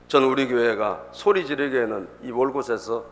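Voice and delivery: usual speaking voice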